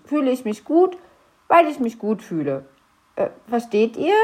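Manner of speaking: a fretful goblin tangling himself in his own logic; confused little grump. Acted. Knöterchen's muddled explanation. (leicht gesprochener verwirrter kleiner Wichtel)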